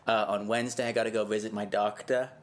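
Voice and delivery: put-on Massachusetts accent. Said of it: "You sound like you're from Massachusetts".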